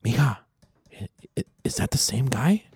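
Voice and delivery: half-whispered aside into someone's ear; mock gossip whisper from the aunt; nosy aunt's retold whisper. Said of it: "she goes in her ear".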